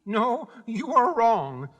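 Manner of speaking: slow, high-pitched meek admission. A narrator's reading. Little man corrects Dorothy, meekly. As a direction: correct her timidly, taking your time. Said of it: "said the little man meekly".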